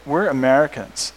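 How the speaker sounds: deadpan, slowing right down at the end; mock serious. American joking with his Italian friend about winning, mock serious. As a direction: deliver the joke in dead earnest, dropping low to finish. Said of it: "I was very serious".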